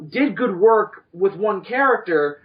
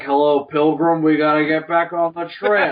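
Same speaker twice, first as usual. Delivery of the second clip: John Wayne; 4 dB louder than usual. Retold or imitated. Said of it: "like a John Wayne impression".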